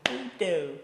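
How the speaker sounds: high, loud, slow taunting villain; Joker voice. Acted. Joker pressing Robin about the food, taunting. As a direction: lean in and purr the threat.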